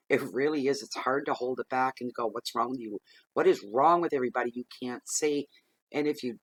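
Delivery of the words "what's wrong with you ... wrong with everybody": building from muttered to a fast, louder blurt; mock outburst, building to louder and fast; exasperated outburst. Fed up with everyone ignoring the obvious, building exasperated outburst. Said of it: "flip right out and scream".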